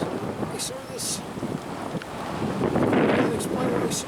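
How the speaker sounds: slow, half-whispered tearful retelling; imitating a crying friend. Retelling how shaken Willie confided what he saw, slow tearful whisper. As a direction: mimic the shaken old farmer, slow and whispered. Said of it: "he's like crying".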